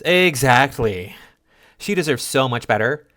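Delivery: high, drawn-out mock emphatic agreement; exaggerated agreement. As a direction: stretch the first word out, hamming up the agreement. Acts out an agreeing commenter's reply.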